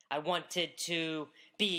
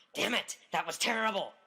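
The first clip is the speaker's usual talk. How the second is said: mock-angry voice, pitched much higher; 3 semitones higher than usual. After a speech, recalling what the speaker said to themself; retelling angry self-talk. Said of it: "I was angry with myself".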